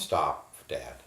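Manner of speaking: shouted at full force; loud stop. Acted. Son shouting at his father during the beating to stop. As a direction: yell it at him to make him stop. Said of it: "I told my father to stop".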